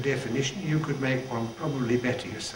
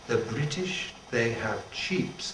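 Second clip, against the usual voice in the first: put-on French accent; 4 dB quieter, slower than usual. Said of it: "with a beautiful accent".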